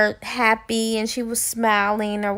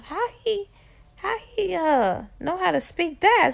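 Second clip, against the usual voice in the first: amazed stammer; 7 semitones higher than usual. Acted. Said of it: "mouth dropped".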